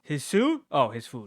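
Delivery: a playful gasp of a guess; surprised guess. Real, not acted. Guessing what Peter pulls from his backpack, surprised.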